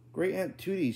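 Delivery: shout. A narrator's reading. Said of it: "he shouted".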